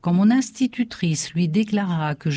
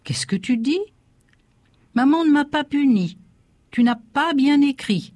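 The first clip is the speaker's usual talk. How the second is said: father's stunned outcry, pitched high; astonished exclaim; 9 semitones higher than usual. Acted. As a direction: exclaim in disbelief at the boy. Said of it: "stupéfait et s'écria".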